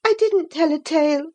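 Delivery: high, quick defensive denial; young girl denying. Acted. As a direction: protest your innocence a bit too fast. Catherine denies lying.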